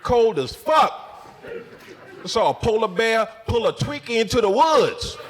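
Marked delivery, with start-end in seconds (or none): 0.0-1.3 Cold as fuck drawn out slowly, fuck rising; slow emphatic. Shown as a demonstration. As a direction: stretch each word of Cold as fuck. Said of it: "It's cold as a bitch outside".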